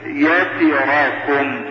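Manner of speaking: يتراكم said slowly with every vowel given full length; careful articulation. Shown as a demonstration. Teacher giving an example of good articulation, يتراكم said carefully. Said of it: "ويحسن النطق بها ما استطاع".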